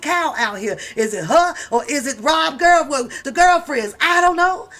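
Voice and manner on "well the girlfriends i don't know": ordinary delivery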